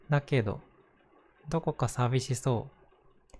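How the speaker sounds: gentle picture book reading; reading to children. Acted. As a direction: read it like a bedtime story. Reads a picture book aloud.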